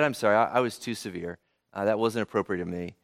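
softened apology. Retold or imitated. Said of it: "she softened up".

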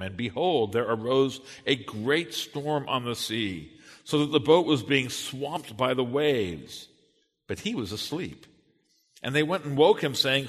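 measured, emphatic public Bible reading; scripture reading. Acted. Pastor reads Matthew's gospel to the congregation, scripture reading. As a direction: read it out solemnly, stressing key words.

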